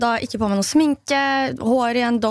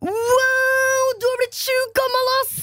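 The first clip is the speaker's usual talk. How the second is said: put-on high, stretched-out teen boy voice; boy in the lift comments on her age, mock teen voice; 10 semitones higher, much slower than usual. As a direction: imitate the cheeky boy in the lift. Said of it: "måten han sa det på".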